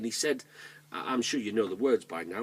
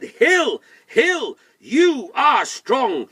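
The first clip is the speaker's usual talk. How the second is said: high, loud shout to the hill; storybook shout; calling out; 14 semitones higher, 14 dB louder, much slower than usual. Acted. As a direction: call out each word big, slowing at the end. Tom calls to the hill.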